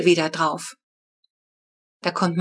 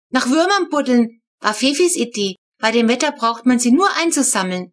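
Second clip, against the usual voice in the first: a hint of a small girl, pitched higher; lightly voiced child explaining; 4 semitones higher than usual. Flo explaining the worm digging to her sibling, lightly childish. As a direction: explain it like a keen little kid. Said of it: "erklärt Flo".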